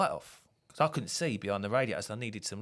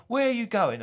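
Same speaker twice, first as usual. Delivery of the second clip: high, louder imitated call; mock shout; 11 semitones higher, 5 dB louder than usual. Grumpy customer mimicked, calling out loud. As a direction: call after them in a mock yell. Retold bloke calling after them.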